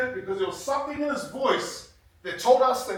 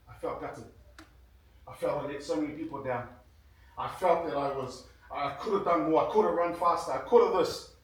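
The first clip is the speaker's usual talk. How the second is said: low, much softer, heavy with regret; gutted; 8 semitones lower, 4 dB quieter than usual. Retold or imitated. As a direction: let the words sink with the shame of losing. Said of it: "How do you feel?".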